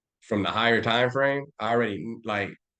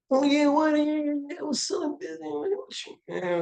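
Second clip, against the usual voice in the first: mocking hood voice. Mocking suburban wannabe gangsters, high squeaky voice.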